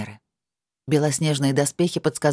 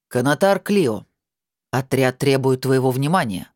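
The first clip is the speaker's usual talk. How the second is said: stern. Acted. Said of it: "суровым голосом напомнил Холлен".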